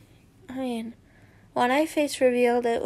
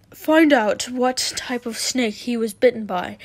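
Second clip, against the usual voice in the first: mildly flustered, louder reading; 5 dB louder than usual. Acted. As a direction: read it as if a little rattled. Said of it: "I'll do a flustered voice".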